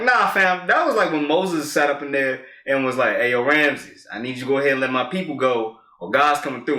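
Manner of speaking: high, excited street retelling of Moses; hyped storyteller bit. Pretend. Retelling Moses to friends at home, high and excited. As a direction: sell the bit like a hype friend. His comedic Bible bit.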